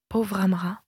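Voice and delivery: understated murmur of pity; a touch of compassion, lightly murmured; compassionate murmur. A narrator's reading. Tirza pitying the old servant Amra, mildly compassionate murmur. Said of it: "murmura Tirza d'un ton plein de compassion".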